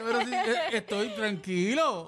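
sultry voice. Acted. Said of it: "Sonic tiene una voz sensual".

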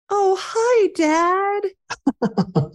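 dying man's greeting. Retold or imitated. A client's dying father greets his dad in a high, far-off voice. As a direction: lift into a thin high voice as if seeing his dad.

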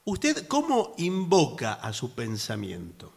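slow unvoiced whisper. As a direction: whisper the question slowly. Hushed intimate question.

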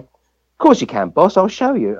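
lightly put-on Cockney voice; quoted line with a Cockney lilt; Cockney accent. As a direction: retell it as a friendly Cockney bloke. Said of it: "this voice in a Cockney accent".

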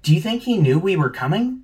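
loud, high, frustrated questioning; agitated. Acted. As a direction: fire back in loud exasperation. Panicked questions, target missing.

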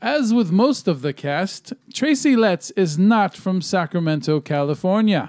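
lightly put-on announcer voice; announcer guy. Host reads out a top ten list, announcer guy voice. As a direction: read the list like an old-school announcer. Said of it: "it's like my old announcer guy voice".

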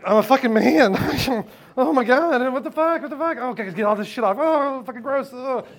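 mock panic. Panic after post-nut clarity.

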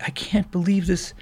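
high-pitched voice of an overwhelmed woman; acted weepy amazement, high; imitated tearful disbelief. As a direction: imitate someone asking through tears, pitched high. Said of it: "crying, and she's like".

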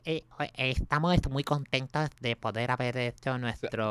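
slow, hesitant footballer press-conference Spanish; mock Beckham in Spanish. Host imitating Beckham's Spanish at a press conference, slow and halting. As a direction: drag it out like a player stumbling through a press talk. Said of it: "y habla así".

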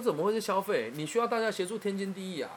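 high-pitched, insistent retold reassurance; animated protest on someone's behalf; emphatic rebuttal.

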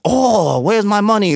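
high mock Asian alien accent, hammed up; mock stereotyped Asian accent. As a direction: parody the racist alien voice. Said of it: "worst Asian accent".

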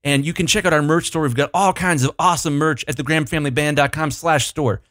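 upbeat ad-read voice, a bit fast; sales pitch voice. Pretend. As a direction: read it like a cheesy band promo. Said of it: "you gotta use your imagination 'cause this is gonna suck".

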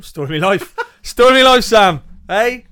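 laughing loudly and high. Real, not acted. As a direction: burst out laughing mid-sentence. Laughing at the joke on him.

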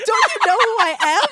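high-pitched, entitled mock outrage; Murdoch, mock self-important. Podcaster voicing rich caller to dispatcher, mock self-important. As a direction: pull rank in exaggerated offence. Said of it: "how fucking rich this guy is".

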